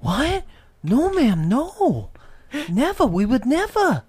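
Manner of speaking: high-pitched, bewildered denial; Mark Wahlberg. Retold or imitated. Mocking the actor's stunned denial to the old lady, incredulous. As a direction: protest innocence in a squeaky, rising voice.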